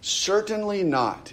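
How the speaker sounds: high, drawn-out CERTAINLY NOT; emphatic. Retold or imitated. Preacher voicing Paul's answer to the question, emphatic. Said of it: "in the most emphatic of terms".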